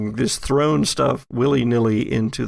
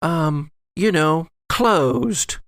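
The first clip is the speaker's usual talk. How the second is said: posh lady voice; 6 semitones higher than usual. Acted. GM voices Allison, higher.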